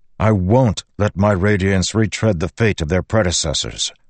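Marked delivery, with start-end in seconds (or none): none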